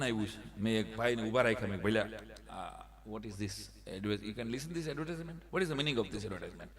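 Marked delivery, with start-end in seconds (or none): 2.1-6.7 slow halting broken English; quiet slow tourist English. Retold or imitated. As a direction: spell it out slowly to a foreigner. Broken English to Chinese stranger.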